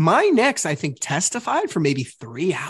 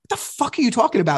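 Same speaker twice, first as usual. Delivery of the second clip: fast, higher re-enacted retort; indignant retort; 6 semitones higher, faster than usual. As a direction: replay a quick, exasperated comeback. Re-enacting his angry argument.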